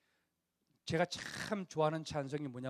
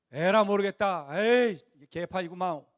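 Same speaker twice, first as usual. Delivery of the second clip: louder, slow disgusted grumble; fed-up giving up; 2 semitones higher, 6 dB louder than usual. Acted. Grumbling Israelites giving up in the desert, disgusted. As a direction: throw up your hands in disgust. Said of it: "그러면서 때려치는 게 아니고".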